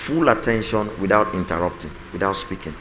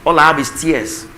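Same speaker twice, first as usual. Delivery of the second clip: mock tearful spouse; 5 semitones higher, 5 dB louder than usual. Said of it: "Don't say".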